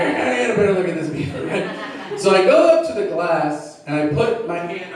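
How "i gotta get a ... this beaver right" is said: fast and laughing, the line redone with a grin; quick laughing retake. Shown as a demonstration. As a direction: rush it through a laugh. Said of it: "I should change the wording".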